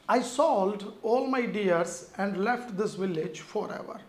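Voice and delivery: reads the test sentence out very slowly; slow sentence reading. Shown as a demonstration. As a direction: dictate it word by word for students. Reads the exam sentence aloud. (धीरे-धीरे वाक्य पढ़ना)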